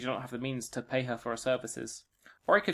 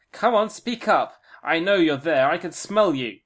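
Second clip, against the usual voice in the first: loud, high suspicious crone; old witch voice; 4 semitones higher, 8 dB louder, slower than usual. Acted. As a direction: call out like a startled old witch.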